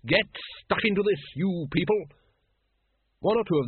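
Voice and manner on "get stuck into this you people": cheerful high call to the pens; hearty invitation to eat up; bright coaxing. A narrator's reading. Keeper urging the dragons to eat, lightly bright. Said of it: "she said brightly".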